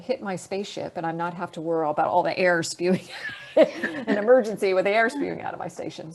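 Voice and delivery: laughter breaking into the words; laughing. Real, not acted. Astronaut joking about air leaking from the station, laughing. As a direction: chuckle through the worry as you tell it.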